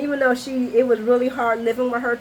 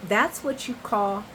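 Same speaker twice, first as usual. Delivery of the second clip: smug; slower than usual. Retold or imitated. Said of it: "And I wrote".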